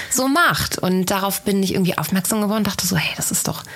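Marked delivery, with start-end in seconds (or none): 3.0-3.6 whispering. Retold or imitated. Imagined thought, whispered aside.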